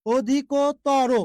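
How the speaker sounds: অধিকতর slowly as "o-dhi-ko... taw-ro"; syllabic pronunciation demo. Shown as a demonstration. Teacher answering a student's doubt, অধিকতর slow and syllabic. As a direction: separate each syllable of অধিকতর, open vowel in তর. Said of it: "উচ্চারণের নিয়মই এইটা".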